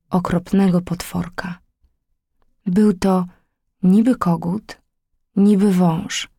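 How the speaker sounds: ominous whispered reveal. A narrator's reading. Narrator whispers the monster's name to children. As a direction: whisper it like a secret.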